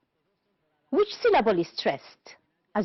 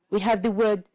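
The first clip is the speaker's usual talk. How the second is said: ordinary talk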